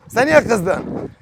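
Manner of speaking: very slow, coaxing question to a pet. Real, not acted. Asking the sulking bird, very slow and coaxing. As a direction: stretch "Sen niye kızdın" out gently.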